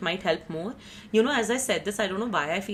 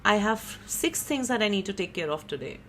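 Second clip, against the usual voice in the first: softer, easygoing inner voice; calm acceptance; 2 semitones higher, 5 dB quieter than usual. Retold or imitated. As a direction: shrug it off gently, at peace. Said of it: "with a sense of peace".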